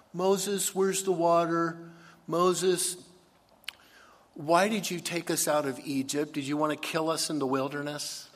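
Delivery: high, loud whine at Moses; whiny complaining Israelites. Retold or imitated. Preacher voicing the thirsty people whining at Moses. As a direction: moan like thirsty ungrateful people.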